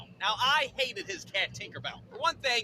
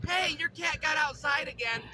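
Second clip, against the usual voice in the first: lightly voiced neighbor, higher pitch; neighbor lady; 5 semitones higher than usual. Neighbor to boy playing outside, lightly put-on voice. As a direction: call over as the neighbor lady. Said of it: "the neighbor lady comes up to me".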